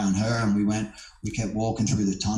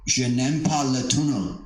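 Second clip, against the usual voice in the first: schoolboy French. Retold or imitated. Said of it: "the French that I could remember".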